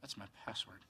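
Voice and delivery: sheepish. Real, not acted. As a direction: admit it softly, embarrassed. Quiet sheepish admission.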